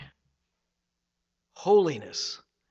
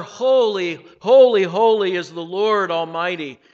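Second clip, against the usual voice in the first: loud proclaimed holy, holy; seraphs calling out; 2 semitones higher, 7 dB louder than usual. Acted. Seraphs calling to one another, loud proclaiming. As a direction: call it out like the seraphs.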